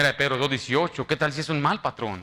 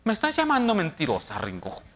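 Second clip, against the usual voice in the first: mock offended boss; 2 semitones higher than usual. Pastor imitates his supervisor taking offense, mock offended. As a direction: act hurt and accusing as the boss.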